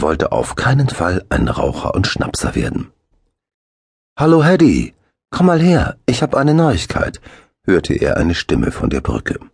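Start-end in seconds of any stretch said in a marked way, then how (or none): 4.2-7.2 high, loud happy shout from afar; excited call. A narrator's reading. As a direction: call across the brook, thrilled. Axel calls from the bridge.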